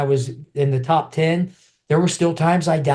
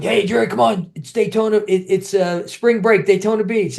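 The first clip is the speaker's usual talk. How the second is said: buddies coaxing; 6 semitones higher than usual. Retold or imitated. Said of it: "My buddies are going".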